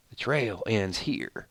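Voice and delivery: hushed, slow character impression; Alpha. Host quoting Alpha's last line from the show, in a hushed imitation. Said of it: "didn't have the creepiness in her voice".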